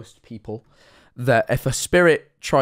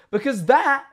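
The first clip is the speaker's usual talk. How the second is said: slow, high, loud wail of alarm; shrieky, drawn-out disbelief; panicked outburst; 7 dB louder than usual. Real, not acted. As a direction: cry out in exaggerated dread. Ranting in mock panic about ghost.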